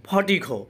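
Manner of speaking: ফটিকো with breathy ph and kh, no R; P as aspirated ফ. Shown as a demonstration. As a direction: say ফটিকো as "pho-ti-kho". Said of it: "পি এর উচ্চারণ ফ".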